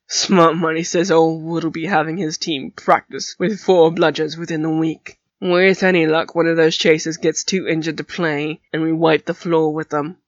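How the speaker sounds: put-on gruff teen boy voice. Flint voiced in story.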